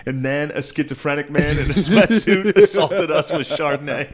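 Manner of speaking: mock confessional. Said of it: "It's like".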